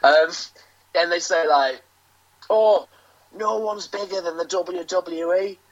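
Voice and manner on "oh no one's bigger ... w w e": light imitation of a rival wrestler's accent; a quick put-on accent for a rival wrestler; Carl Kingsley accent. Wrestler mocks a rival's boast for the host, lightly put-on accent. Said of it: "that's my Carl Kingsley accent".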